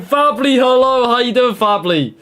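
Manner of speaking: flat robotic monotone. Pretend. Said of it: "Monotone second".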